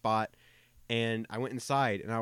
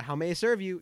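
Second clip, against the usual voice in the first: high, sweet, eager-to-please service voice; polite cashier lilt; customer service voice; 8 semitones higher, 4 dB louder than usual. Shown as a demonstration. Worker shows the nice voice used for customers, high polite service voice. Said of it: "customer service voice".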